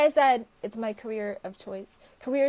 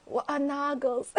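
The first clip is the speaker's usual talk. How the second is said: higher-pitched imitation of an Irish accent; 4 semitones higher than usual. Redoing Cho's question after laughing, imitated Irish accent. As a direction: try Cho's line in Irish. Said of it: "an Irish accent".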